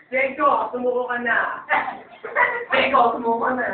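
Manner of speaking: lightly camp, softened delivery; softened, effeminate. Acted. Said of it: "Lamutan niyo na konti". (malambot, medyo bading)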